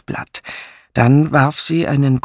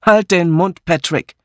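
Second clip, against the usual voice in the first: higher, irritated rebuke; snapping; 5 semitones higher than usual. A narrator's reading. Miss Blacklock silences Patrick's teasing, snapping. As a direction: tell him off abruptly, pitched up. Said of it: "fuhr Miss Blacklock ihn an".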